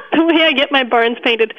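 repeating the question through a laugh; chuckling as she echoes it. Real, not acted. Farmer amused by the host's barn question, laughing.

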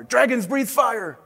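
high, slow father's scolding; held-back storybook shout; mock shout. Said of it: "shouted his father".

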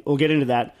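talking while chewing; words round a bite of bread; mouth full. Real, not acted. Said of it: "Excuse me, I'm eating".

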